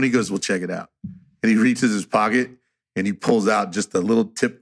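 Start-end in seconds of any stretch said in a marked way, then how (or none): 0.3-0.9 low, quiet voice of a laid-back friend; Philip. Retold or imitated. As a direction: imitate him talking low and soft. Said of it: "and this is how he talks".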